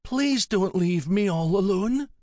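put-on high-pitched childlike plea; little girl voice. A narrator's reading. Melanie begging not to be orphaned, high little girl's voice. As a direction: plead like a child fearing abandonment. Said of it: "little girl who didn't want to be orphaned".

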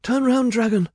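high, loud frantic order; urgent command. A narrator's reading. Medea pulls the dragon's mane, urgently commanding. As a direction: shout at the beast to obey.

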